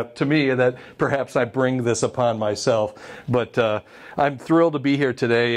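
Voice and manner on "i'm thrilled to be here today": muffled behind a face mask; through a face mask. Real, not acted. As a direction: speak through a cloth mask. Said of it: "forgive the mask".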